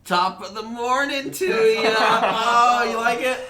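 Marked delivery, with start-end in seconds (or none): 0.0-1.9 slow, hammed-up Irish greeting; fake Irish accent. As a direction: lay on a bad Irish lilt. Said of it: "I love your Irish accent".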